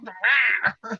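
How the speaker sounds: high, restrained imitation scream; mock scream. Retelling the man grabbed by his junk, mock screaming. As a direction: imitate a startled man's yell without full volume. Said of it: "He just starts screaming".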